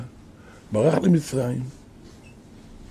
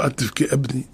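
lower, softer voice of comfort; pitying, consoling; 5 semitones lower, 4 dB quieter, faster than usual. Retold or imitated. Brother comforting his weeping older brother, pitying and consoling. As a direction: gently hush a crying brother, acted out. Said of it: "ריחם עליו".

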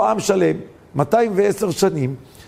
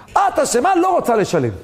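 high-pitched, scolding boss; acted indignant dismissal; accusing refusal; 5 semitones higher than usual. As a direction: snap the blame, then drop to a firm refusal. Boss blames the worker, retold.

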